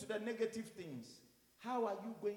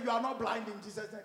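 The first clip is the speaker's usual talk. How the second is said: raised, urgent correcting voice; retold parental correction; 3 semitones higher, 6 dB louder than usual. Father to playing child, retold loud correction. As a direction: correct the child firmly and loudly.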